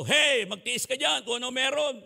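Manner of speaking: a strict father cutting off the request; stern refusal. Retold or imitated. Father scolding his child for wanting a toy, stern.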